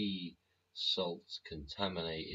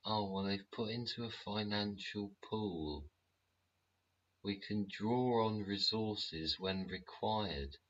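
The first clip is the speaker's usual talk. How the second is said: lightly voiced smug bureaucrat; higher, slow official excuse; prim official voice; 4 semitones higher than usual. Voices official in mock dialogue.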